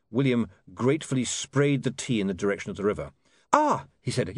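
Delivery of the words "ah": a high startled Ah, caught out; high caught-out gasp of a word; flustered yelp. Acted. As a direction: caught spitting tea, yelp in surprise. William spluttering after spitting tea.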